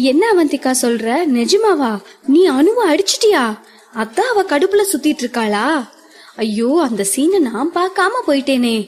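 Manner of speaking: rising, quick excited questions; eager questioning. Acted. Madhu grills Avanthika about the slap, eagerly excited. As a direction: pile on the questions, thrilled. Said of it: "ஆர்வத்தில் கேள்வி கேட்டுக்கொண்டே".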